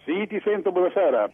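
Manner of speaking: phone line audio; over the phone. Real, not acted. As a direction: caller heard through a telephone. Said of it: "ci colleghiamo telefonicamente con Milano".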